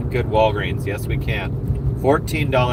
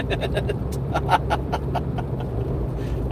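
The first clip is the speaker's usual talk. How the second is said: high, breathy wheezing giggle; wheezy laugh; 6 semitones higher, 5 dB quieter than usual. Real, not acted. Streamer telling of son rushing in, wheezy laugh. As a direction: laugh helplessly in airy pulses.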